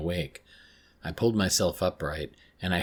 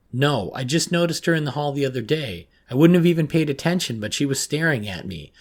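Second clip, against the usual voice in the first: higher, louder, anxious rush of words; agitated answer; 7 semitones higher, 6 dB louder than usual. A narrator's reading. Girl answering counsellor about Camille, anxious and agitated. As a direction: answer worked up, then press for the reason.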